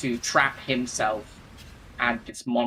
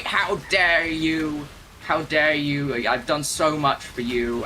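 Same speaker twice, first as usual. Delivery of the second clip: slow, drawn-out mock outrage; losing it; 3 semitones higher, 3 dB louder, slower than usual. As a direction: stretch each word out in offended fury. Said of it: "completely loses it".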